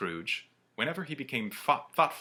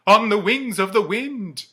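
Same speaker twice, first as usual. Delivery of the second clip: Marley's ghost; 10 semitones higher, 10 dB louder than usual. Acted. The ghost tells Scrooge of his chain, wailing high and loud. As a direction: moan each word like a chained spirit.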